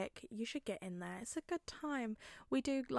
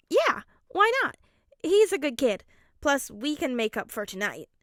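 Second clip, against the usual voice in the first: light higher man's voice, a touch playful; Hisashi's voice; 4 semitones higher, 11 dB louder than usual. Acted. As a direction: voice the dad warmly teasing. Hisashi voice again.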